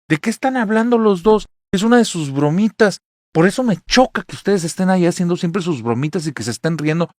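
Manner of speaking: loud, high irritated scolding; angry dismissal. Retold or imitated. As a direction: mom scolds kids for their jokes. Mom angrily dismisses kids. (madre regaña irritada, fuerte y aguda)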